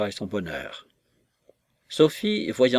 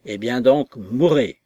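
angry outburst; 4 dB louder than usual. Acted. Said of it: "s'écria monsieur Weston".

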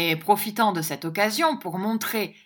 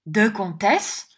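surprised; 3 semitones higher, 6 dB louder, slower than usual. Acted. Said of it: "interrompit madame".

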